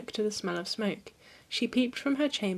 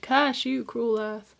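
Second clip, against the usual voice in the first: anguished cry; 3 semitones higher, 4 dB louder, slower than usual. Acted. Kneeling Demeter curses the earth, with an anguished loud cry. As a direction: hurl the curse out in despair. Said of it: "Demeter fell to her knees and cried".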